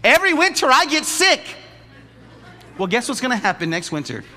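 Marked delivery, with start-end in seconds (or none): 0.0-1.4 nonchalant Christian. Retold or imitated. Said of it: "Christians just say it so nonchalantly".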